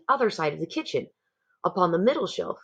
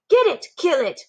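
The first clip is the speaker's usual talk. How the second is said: high, loud frantic cry; shouting cooks; 10 semitones higher, 3 dB louder than usual. A narrator's reading. Cooks stamping after the mouse, yelling. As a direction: yell it mid-chase.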